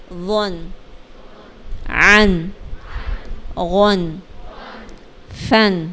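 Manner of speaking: each syllable said alone, spaced out; drill recitation. Shown as a demonstration. Teacher reciting tanween endings for pupils to repeat. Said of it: "ون کیسے پڑھیں گے".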